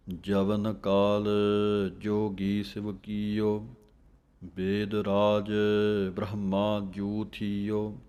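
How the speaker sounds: slow, measured chanting of the verse; slow scripture recitation. Shown as a demonstration. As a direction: recite each phrase with a steady pause. Recites Gurbani verse slowly.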